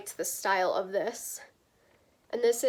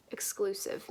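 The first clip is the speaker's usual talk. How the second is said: whispered; 2 semitones lower, 5 dB quieter than usual. Real, not acted. Whispered aside on the label.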